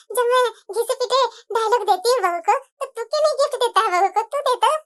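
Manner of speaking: teasing with a laugh; mother laughing back at her son. Acted. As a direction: chuckle through the comeback.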